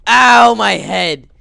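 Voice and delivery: slow, loud hammed-up ow; mock pain. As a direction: overplay the bump. Character hits head.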